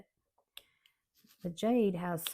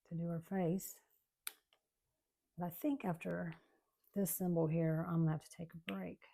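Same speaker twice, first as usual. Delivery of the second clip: ordinary delivery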